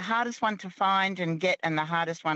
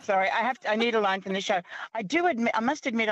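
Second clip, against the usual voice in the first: ordinary talk, nothing marked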